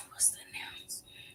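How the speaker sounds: breathy whisper, voice fully dropped; secret whisper. Real, not acted. Teasing her chat with a hushed whisper.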